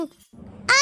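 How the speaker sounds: drawn-out "aah" of pain; cry of pain. Acted. Gauri cries out as she is about to collapse, pained cry. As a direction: cry out as pain suddenly hits. Feigned or acted sudden pain.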